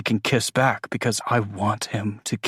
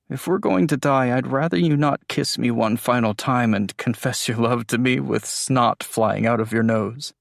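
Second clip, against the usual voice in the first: lightly voiced, teasing; 3 semitones higher than usual. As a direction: tease her gently.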